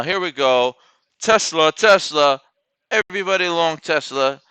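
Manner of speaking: loud, high, pumped-up trading hype; high, loud, excited cheering at the screen; hyped up. Real, not acted. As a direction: shout it like you're all in on a rocketing stock. Hyped trader betting big on Tesla.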